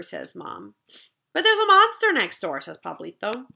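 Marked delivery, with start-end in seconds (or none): 1.3-2.6 put-on high, loud alarmed kid; little brother warning mom about the monster; scared warning. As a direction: blurt it out in alarm. Child warns.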